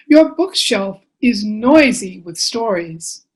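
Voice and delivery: measured storytelling with lilting phrases; picture-book reading. Acted. Author reading bedtime book to children, expressive storytelling. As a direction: read to little ones, pausing between phrases.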